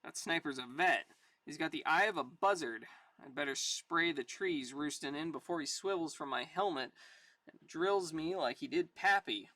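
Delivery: tough soldier's narration, steady; comic story narration. Acted. Sergeant sizing up the sniper, story narration.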